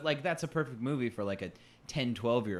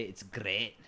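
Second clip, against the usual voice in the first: bad Scottish accent. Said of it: "like a bad Scottish accent".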